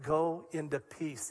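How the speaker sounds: slow and soft, tender; a soft tender blessing to the lady; gentle quote. Acted. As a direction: let it settle softly like a blessing.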